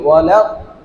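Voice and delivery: ওয়ালা দ cut off as if with a pause; wrong pause. Shown as a demonstration. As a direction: show the wrong stop in ওয়ালা দ. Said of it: "সাক্তা হয়ে গেছে".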